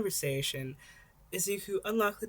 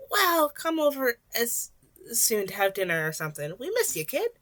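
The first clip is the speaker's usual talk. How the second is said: smiling; 5 semitones higher, 5 dB louder than usual. A narrator's reading. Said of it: "she said with a smile".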